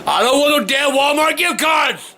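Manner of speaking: angry shout. Real, not acted. Grandpa yelling about gift cards.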